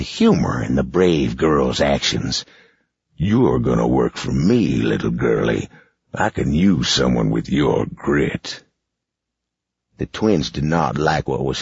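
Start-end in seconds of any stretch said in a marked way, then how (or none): 3.2-8.6 lightly voiced villain boss; a hint of a sneering boss; gruff boss.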